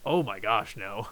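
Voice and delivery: normal talking voice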